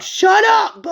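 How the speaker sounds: high loud yell; stunned shout. Acted. Crowd reacting to fire from heaven, shouting high. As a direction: blurt it out in shock.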